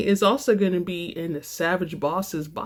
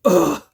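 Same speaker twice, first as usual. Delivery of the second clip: short fed-up grunt, a bit louder; exasperated ugh; 3 semitones lower, 7 dB louder than usual. Acted. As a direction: let a mock scream of frustration out into the pillow. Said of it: "I screamed into my fluffy red pillow".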